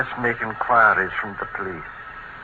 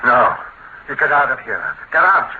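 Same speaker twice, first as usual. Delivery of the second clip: loud, rising anger, ordering him out; furious old man ordering the visitor out; angry order; 4 semitones higher, 4 dB louder than usual. Acted. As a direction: throw the banker out of the house.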